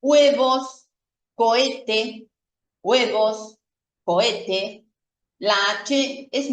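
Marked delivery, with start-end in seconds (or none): 0.0-4.8 "huevos" dicho webos, sin h; "cohete" sin la h, koete; h muda. Shown as a demonstration. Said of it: "hacer de cuenta que no está en la palabra". (h muda en "huevos")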